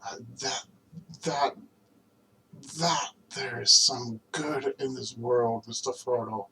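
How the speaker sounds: earnest recitation, hesitant and pausing toward the close; dramatic film monologue. Acted. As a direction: reassure a friend with measured, spaced-out phrases.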